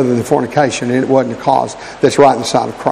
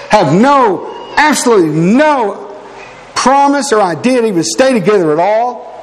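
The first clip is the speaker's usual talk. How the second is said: earnest exhortation with raised pitch on key phrases; earnest preaching; 5 semitones higher than usual. Real, not acted. Preacher urging brethren to get serious about marriage, earnest preaching. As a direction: preach it, leaning on the key words.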